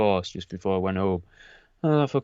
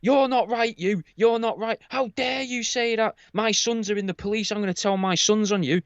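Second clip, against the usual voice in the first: put-on much higher, outraged old lady; indignant old woman voice; 11 semitones higher than usual. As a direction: squeak it out like an offended pensioner. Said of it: "she was like".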